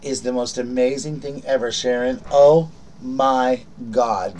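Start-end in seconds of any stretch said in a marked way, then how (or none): 2.3-4.4 slow, loud, awed oh my God; amazed. Real, not acted. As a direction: struck with delight. Opening a touching gift.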